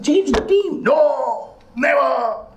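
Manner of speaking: father and son row. Retold or imitated. Father and son arguing, voiced.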